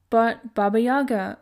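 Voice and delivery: a mild pleading cry. Acted. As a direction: call out to stop her. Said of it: "Vasilisa cried out".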